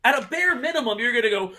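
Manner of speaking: exasperated yell at a screen, retold; mock yelling. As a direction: retell it as a high, indignant rant. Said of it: "I was yelling at the screen".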